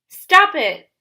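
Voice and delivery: shouted. A narrator's reading. Annabeth cuts off Luke's taunts, loud shout. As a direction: cry out to make him stop. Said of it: "she shouted".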